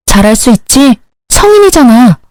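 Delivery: high, sarcastic jab; mocking. Wife mocking husband during the laundry fight, sarcastic high jab. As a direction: talk down to him like a child.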